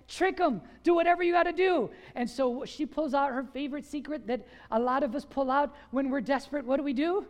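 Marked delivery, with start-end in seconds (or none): 0.1-1.9 higher, fast pushy urging; scheming urging. Retold or imitated. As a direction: Philistine men pressing the bride to trick Samson, higher and fast. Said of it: "And they're like".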